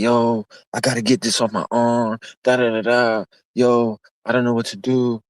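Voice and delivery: frantic cellmate begging; scared guy bugging out over his arm; freaking out. Retold or imitated. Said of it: "bugging, like".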